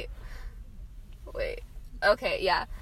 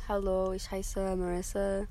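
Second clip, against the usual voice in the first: German said softly, hardly throaty; casual, low-effort German introduction; unforced German; 3 semitones lower, 6 dB quieter than usual. Shown as a demonstration. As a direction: speak German without pushing the throatiness. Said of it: "That's not even that throaty".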